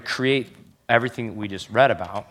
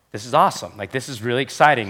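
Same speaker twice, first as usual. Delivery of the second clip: voicing Paul's excitement, a notch louder; excited; 3 semitones higher, 6 dB louder than usual. Pastor voicing Paul's excitement for the church. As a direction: pump it up like Paul cheering. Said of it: "what Paul wrote is like".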